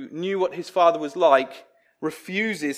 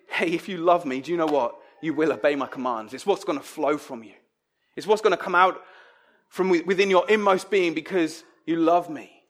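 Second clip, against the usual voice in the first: gentle reassurance; 2 semitones lower than usual. Shown as a demonstration. Preacher voicing a kind Jesus to disciples. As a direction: reassure them it will flow naturally. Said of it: "do you hear the voice of Jesus saying".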